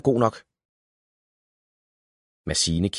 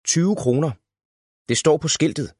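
put-on child voice; 8 semitones higher than usual. A narrator's reading. Valborg reads price, child voice.

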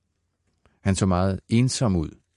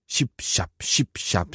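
squelching steps; slower than usual. A narrator's reading. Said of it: "siger det".

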